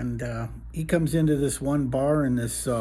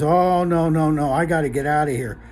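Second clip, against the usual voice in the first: loud burst of worried refusal; mock alarm; 4 dB louder than usual. Huge man hurrying away from Big John, mock alarm. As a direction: blurt it out, loud at first, then easing.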